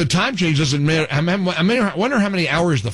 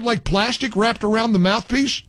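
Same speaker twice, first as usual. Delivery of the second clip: ordinary delivery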